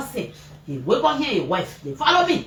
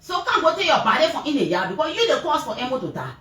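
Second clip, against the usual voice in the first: retold accusing cry; 5 semitones higher than usual. Mother accusing father over son's death.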